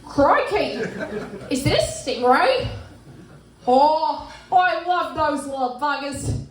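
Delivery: channel Steve Irwin, amused, unhurried; a hint of an excited Aussie wildlife host; Steve Irwin impression. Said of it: "what he said in his final expedition".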